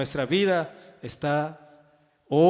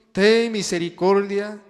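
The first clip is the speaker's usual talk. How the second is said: crying out; 2 semitones higher, 5 dB louder than usual. Acted. Preacher re-reading the blind men's plea to the congregation, crying out. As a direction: call it out louder, drawing the words out. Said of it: "Dando voces y diciendo".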